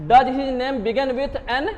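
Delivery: slow question read out for the class; slow example read. Shown as a demonstration. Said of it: "अब देखिए ये F है".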